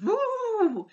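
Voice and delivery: a hint of a hyped drawn-out woo; mock woo. Mocking hyper YouTubers, mild drawn-out woo. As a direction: imitate an adrenaline-fuelled whoop lightly. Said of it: "they need to be on a constant, like, adrenaline".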